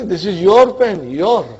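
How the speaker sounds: "your" picked out firmly, then repeated alone; emphatic stress on "your". Shown as a demonstration. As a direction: drive the point home on "your". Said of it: "Just for emphasis".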